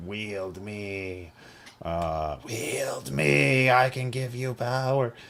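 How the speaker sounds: very slow, sinister, evil half-whisper. Voicing a glowing evil sword that tempts the players: evil sword half-whispering. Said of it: "a constant low-level whispering".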